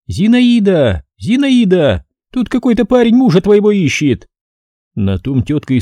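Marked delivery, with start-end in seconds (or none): 0.1-4.3 booming call. A narrator's reading. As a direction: call her out from across the yard. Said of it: "зычно крикнула".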